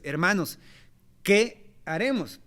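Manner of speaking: slow, pleading cry of a stricken crowd; anguished plea. Retold or imitated. Crowd asking Pedro what to do, slow anguished plea. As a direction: drag it out like people in distress. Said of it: "se conmovieron profundamente y entonces dijeron".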